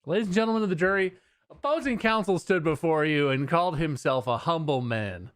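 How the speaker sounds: mock prosecutor. Prosecutor mocking opposing counsel to the jury, hammed-up. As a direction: sneer at the humble man like a TV lawyer.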